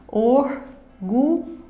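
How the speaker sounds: "Orgulho" in three separate beats: or, gu, lho; very slow "Orgulho", a pause after each syllable. Shown as a demonstration. Teacher counting three breaths in a word, syllable by syllable. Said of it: "Aqui nós vamos expirar três vezes".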